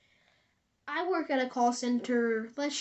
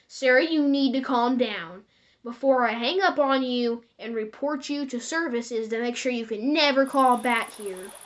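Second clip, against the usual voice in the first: firm warning; 6 dB louder than usual. Retold or imitated. Worker warning threatening caller.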